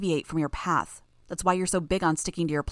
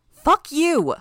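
furious shout; 11 semitones higher, 9 dB louder than usual. Acted. Sophia lashing out.

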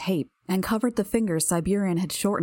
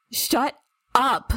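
furious screech, higher and louder; 6 semitones higher, 4 dB louder than usual. A narrator's reading. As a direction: scream it at her to shut her up. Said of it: "The words were a screech".

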